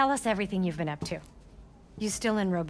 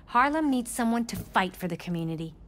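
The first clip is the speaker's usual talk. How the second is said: campaign speech voice. Acted. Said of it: "That's Mom's campaign speech voice".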